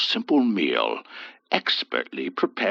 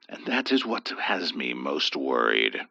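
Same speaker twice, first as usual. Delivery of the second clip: worried; 11 semitones lower, 6 dB quieter than usual. A narrator's reading. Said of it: "Father Martin replied".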